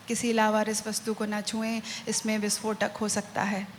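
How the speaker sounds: fast, soft announcer voice; muffled subway announcement. Acted. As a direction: rattle it off like a metro speaker. Metro announcement quoted in poem.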